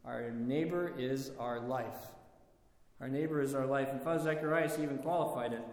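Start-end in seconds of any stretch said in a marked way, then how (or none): 0.0-2.1 slow, reverent quoting of a saint; slow solemn quote. Retold or imitated. Preacher quoting Saint Silouan to the congregation, slow and reverent. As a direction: let each word land slowly, as a sacred saying. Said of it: "Saint Silouan says".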